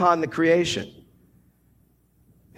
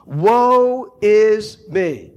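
very slow, louder woe is me; slow lament; 3 dB louder, much slower than usual. Acted. Isaiah undone before God, very slow lament. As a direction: stretch each word like a groan. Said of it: "Isaiah himself pronounces a judgment".

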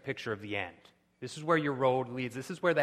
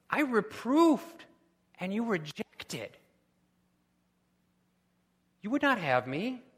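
loud, higher reproach, slowing on I reproofed; wisdom's stern rebuke; 7 semitones higher, 6 dB louder than usual. Acted. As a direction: scold the one who would not listen. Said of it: "She says".

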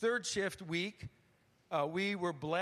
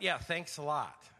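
sarcastic thanks; 3 semitones lower than usual. Retold or imitated. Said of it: "compliant, good Christian that I am".

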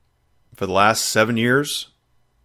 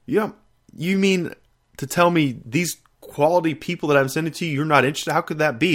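incredulous disbelief; 7 semitones higher than usual. Retold or imitated. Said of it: "I was like".

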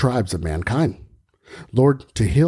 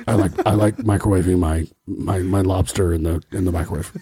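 deep Batman voice; 5 semitones lower, faster than usual. Acted. Batman voice, silly line.

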